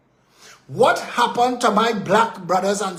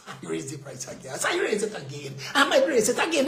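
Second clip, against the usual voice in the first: mock escalating provocation; 3 semitones lower, 6 dB quieter, faster than usual. Officials testing how much Trinidadians will take, mock escalating provocation. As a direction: start low and hushed, rise with each repeat. Mimics officials repeatedly raising prices.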